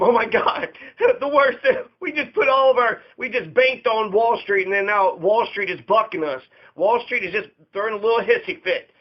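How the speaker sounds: a mock frantic backroom rant; mock panic. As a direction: play a panicking official with a laugh breaking through. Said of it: "he's all freaking out".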